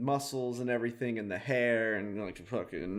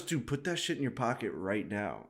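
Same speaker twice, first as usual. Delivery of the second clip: lower, softer sneaky order; conspiratorial hush; 6 semitones lower, 10 dB quieter than usual. Retold or imitated. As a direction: say it like a secret scheme. Retold cashier scheming.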